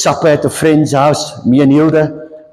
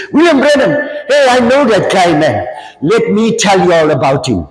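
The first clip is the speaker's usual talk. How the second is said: imitating a dad's Durban accent, starting high; eager recognition in a Durban Indian accent; strong Durban accent; 3 semitones higher than usual. Father who knows William Branham, strong Durban accent. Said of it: "Sterk Durban accent".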